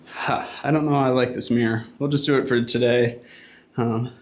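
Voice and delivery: talking out of breath after a workout; panting slightly between words, out of breath. Real, not acted. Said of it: "Sorry, I'm out of breath".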